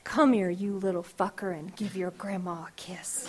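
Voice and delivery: teasing and tender, ending in a laughing whisper; fond grandma. Retold or imitated. Grandma calling the little one for a kiss, fond laughing whisper. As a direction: call the child in with loving mischief. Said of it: "a curse word made into a term of endearment".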